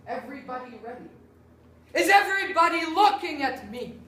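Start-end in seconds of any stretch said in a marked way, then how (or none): 1.9-3.9 demanding attention. Acted.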